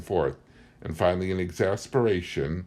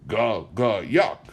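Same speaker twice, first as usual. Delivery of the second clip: lightly voiced old woman, rising at the end; a hint of the senile old woman's babble; garbled words in a mild crone voice; old woman's mumble; 3 semitones higher, 3 dB louder, slower than usual. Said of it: "it could have been".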